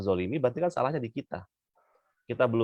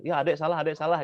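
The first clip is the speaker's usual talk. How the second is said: higher, singsong "adek salah" with no real remorse; dismissive child; 6 semitones higher than usual. Retold or imitated. Child shrugging off a scolding mother, mock dismissive. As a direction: say sorry just to get it over with. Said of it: "Ya pokoknya salah lah gitu kan".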